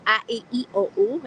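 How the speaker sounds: A, E, I, O, U each stretched wide with big mouth shapes; vowel drill. Shown as a demonstration. Coaching viewers through a face warm-up, vowels stretched wide. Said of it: "is doing this".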